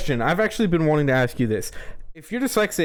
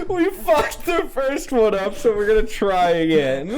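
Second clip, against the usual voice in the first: laughing through words; 7 semitones higher than usual. Retold or imitated. Voicing parents, laughing.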